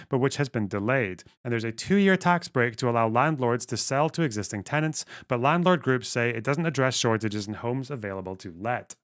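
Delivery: put-on a light, half-hearted Scots accent on the news read; reading the article in a lightly put-on Scottish accent. Streamer reads manifesto news to chat in mild Scots accent. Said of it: "I will go into a full fucking, uh, Scots accent".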